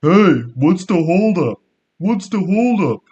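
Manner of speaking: high, loud, slow yell of an impatient driver; angry scream. Retold or imitated. Angry driver behind them yelling at the gate holdup. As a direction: shout it out the car window. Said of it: "really ugly guy with sunglasses screams".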